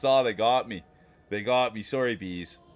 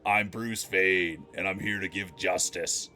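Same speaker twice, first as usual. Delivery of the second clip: a lightly voiced gruff hero line; a hint of a brooding Bruce Wayne, slow on I'm; mild mock superhero voice; the speaker's Bruce Wayne voice; 5 semitones lower, slower than usual. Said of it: "That's the voice he uses".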